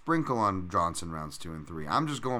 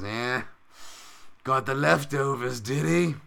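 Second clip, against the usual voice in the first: put-on Bisping's English accent; 5 semitones higher, 4 dB louder, slower than usual. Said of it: "he goes".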